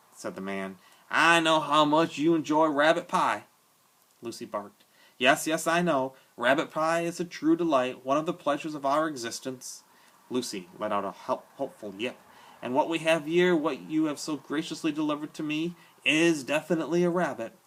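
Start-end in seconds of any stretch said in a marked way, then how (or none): 1.1-3.4 slow, louder, amused drawl to a dog; big man's voice. A narrator's reading. Big bearded man talks to his dog. 5.2-17.5 louder, higher, genial and grandiloquent; a hearty tramp savouring his words; jovial big man. A narrator's reading. Bull voiced throughout the scene.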